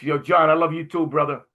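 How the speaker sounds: called out loud and high; shouting back. Retold or imitated. Rabbi calling back his love to John across the gym, loud. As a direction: answer the shout with warmth.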